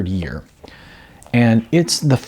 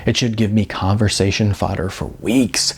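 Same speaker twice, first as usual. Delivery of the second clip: even, engaged narration with gently voiced dialogue; story narration. A narrator's reading. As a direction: tell the chapter to a listener settling in. Reads chapter of his novel.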